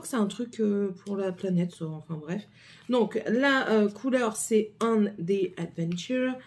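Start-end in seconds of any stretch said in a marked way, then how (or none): 4.8-6.3 slow, put-on English accent. Shown as a demonstration. Vlogger reading a lipstick shade name, in an English accent. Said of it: "avec mon accent anglais".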